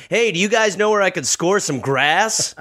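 undercover hippie cop. Retold or imitated. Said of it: "and are like".

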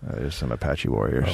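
low, rumbling announcer voice; deep voice. Pretend. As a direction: drop way down and rumble it. Deep voice over the photo.

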